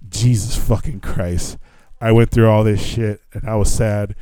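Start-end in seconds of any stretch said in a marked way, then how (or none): 0.1-1.6 slow, understated retold despair; defeated. Traveler told his flight has gone, mildly re-enacted defeat. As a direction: curse slowly, as if all fight is gone. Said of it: "never felt so fucking defeated".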